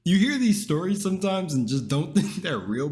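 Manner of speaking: laughing disbelief, high and loud; surprised. Real, not acted. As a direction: react in amused shock. Shocked by streaking story.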